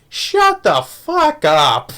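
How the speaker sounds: high, slow mock yell at the dog; drawn-out mock yell at a barking dog; crazed villain yell. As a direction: bark it like an unhinged man.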